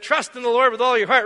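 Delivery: mildly booming overheard quote; retold loud voice. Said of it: "he's not the quietest kid on the block".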